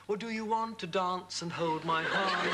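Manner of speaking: drawled American "dance" and "hand", slow; sing-style American twang on "dance" and "hand"; American accent. Shown as a demonstration. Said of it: "You can't say".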